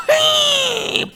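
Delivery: very high, loud screeched blast noise; blast squeal. Retold or imitated. Hero firing the donkey blast, shrill screech. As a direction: shriek out a super-weapon firing.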